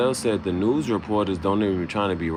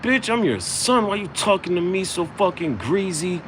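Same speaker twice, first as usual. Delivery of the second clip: indignant high retort; 12 semitones higher than usual. Retold or imitated. Son squeaks back at his mom in high mock outrage. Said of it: "I'd be like".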